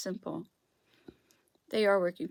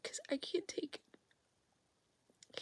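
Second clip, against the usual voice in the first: slow, high, barely voiced plea; tearful whisper; 10 semitones higher, 14 dB quieter, much slower than usual. Real, not acted. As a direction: let it crack in a whisper. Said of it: "Oh, I'm gonna cry".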